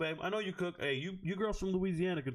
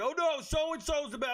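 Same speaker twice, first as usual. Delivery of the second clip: mocking excited fans; 9 semitones higher than usual. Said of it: "they get all excited".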